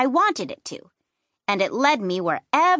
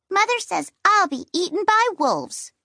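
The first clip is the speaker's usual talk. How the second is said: put-on little girl voice; 8 semitones higher than usual. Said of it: "Gertie said".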